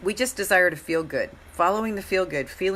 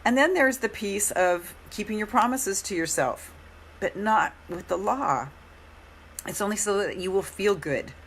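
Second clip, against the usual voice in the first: hoarse after a long workshop; 3 semitones higher than usual. Real, not acted. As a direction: talk through a hoarse throat. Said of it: "Pardon my hoarse voice".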